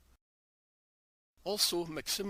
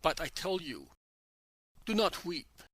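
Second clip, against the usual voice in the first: loud, insistent command; even louder voice. Acted. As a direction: lift the voice over the crowd. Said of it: "in an even louder voice".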